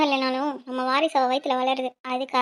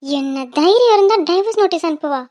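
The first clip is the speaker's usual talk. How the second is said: louder, indignant demand; angry outburst; 5 dB louder than usual. Acted. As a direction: spit out the outrage at her daughter-in-law. Mother outraged by divorce notice. (Divorce notice பற்றி அம்மாவின் கோப உரத்த குரல்)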